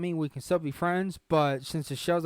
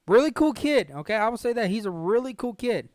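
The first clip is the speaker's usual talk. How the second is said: higher and louder, insistent; loud emphatic praise; 5 semitones higher, 5 dB louder than usual. Real, not acted. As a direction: push it out with emphasis. Emphatic praise of Brooks to viewers.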